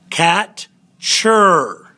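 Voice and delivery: "Cat" short and accented, a pause, then "chur" falling; syllables split for accent. Shown as a demonstration. Teacher dividing the word for students, "Cat" then falling "chur". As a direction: break it into "Cat" and a drawn-out "chur".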